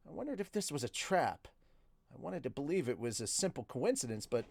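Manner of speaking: measured audiobook-style narration; story narration. A narrator's reading. Streamer reading a novel to viewers, story narration. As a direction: read the story aloud in the narrator's voice.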